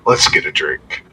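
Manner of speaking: put-on loud, drunken announcement; drunk announcing. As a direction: proclaim the tavern like a drunk. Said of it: "and he goes".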